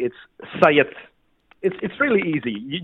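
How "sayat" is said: Sayat said as SIGH-ut; correct surname pronunciation. Shown as a demonstration. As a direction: say Sayat in two syllables, SIGH-ut. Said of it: "correct pronunciation of your surname".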